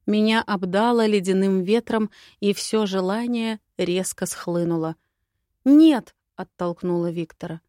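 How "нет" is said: high, loud cry of refusal; distressed outburst, voice leaping up; forceful refusal. A narrator's reading. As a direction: cry out to push someone away. Pushes her lover away.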